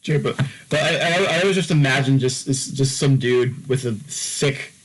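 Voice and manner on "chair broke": mock Eastern European accent. Imagining a modder quitting over a broken chair, Eastern European accent. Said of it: "Eastern European accent saying".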